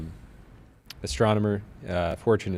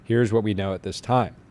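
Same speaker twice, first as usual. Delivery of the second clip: formal, measured legal statement read; lawyer voice. Acted. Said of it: "lawyer voice".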